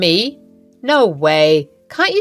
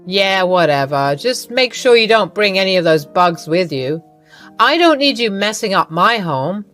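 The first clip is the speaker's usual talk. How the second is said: louder, dismissive; curt mother-in-law; 3 dB louder than usual. Acted. Iva warns Lily not to bring bugs, dismissive and louder. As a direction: brush her off coldly.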